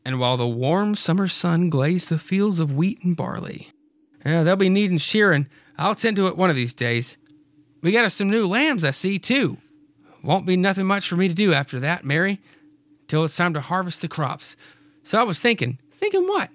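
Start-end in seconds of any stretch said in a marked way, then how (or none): 4.2-15.8 lightly voiced farmer, higher; Clyde's voice. Clyde musing to Mary about the season's work. 15.9-16.5 very high curious question; Mary's voice. Acted. Mary eagerly asking Clyde, very high.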